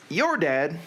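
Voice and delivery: Southern reading voice, trying "your dad". Shown as a demonstration. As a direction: test the phrase in a Southern accent. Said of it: "how do you say your in Southern".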